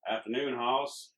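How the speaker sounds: slow, lightly voiced Southern drawl; a hint of a slow Southern cowboy greeting. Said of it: "he says with a deep voice accentuating a thick southern drawl".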